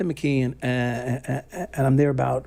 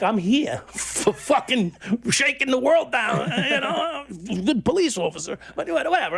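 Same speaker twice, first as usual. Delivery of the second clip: talking through real laughter, pitched up; laughing; 9 semitones higher than usual. Real, not acted. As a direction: laugh at your own bravado as you speak. Laughing at his own past bravado.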